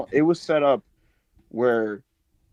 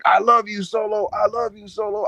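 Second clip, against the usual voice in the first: slightly higher, repeating it like a loyal Pokemon; mindless devotee; 4 semitones higher, 3 dB louder than usual. Retold or imitated. Imitating a lobotomized henchman doting on Solo. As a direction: parrot it like a brainwashed sidekick. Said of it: "like a fucking Pokemon".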